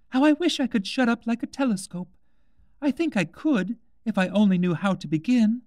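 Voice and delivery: put-on high, brighter girl's voice; young girl musing aloud; Alice. A narrator's reading. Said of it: "said Alice".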